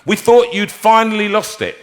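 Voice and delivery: high, agitated backstage chatter; flustered, pitched well up, tumbling out; twittering alarm. Retold or imitated. Stage manager to singer who left character, flustered and high. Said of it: "everybody was twittering".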